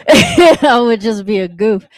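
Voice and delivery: laughing through the line. Shown as a demonstration. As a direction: say it while chuckling, slowly.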